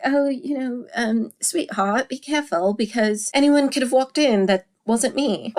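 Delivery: a light, sweet caution to sweetheart; polite gentle warning. Retold or imitated. Husband gently warning his wife after her bath, mock-polite. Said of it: "he's just like".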